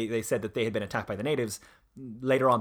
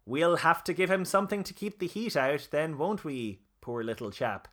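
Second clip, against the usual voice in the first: through gritted teeth; 4 semitones higher than usual. Retold or imitated. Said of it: "said Lemon through his teeth".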